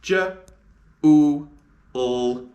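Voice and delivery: j, u loud, l said apart; sounding out July. Shown as a demonstration. Teacher sounding out July. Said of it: "And the sounds of July are".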